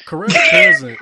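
very high, loud laughing words; breaking up laughing; laughing hard. Real, not acted. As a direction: squeak it out between laughs.

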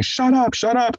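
very high-pitched imitated screaming; mock scream. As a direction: mimic a screamed outburst without full volume. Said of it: "after screaming".

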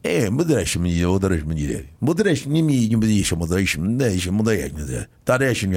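put-on repeating moderation in Russian accent; imitating Russian comedian, chanting word. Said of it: "he's going".

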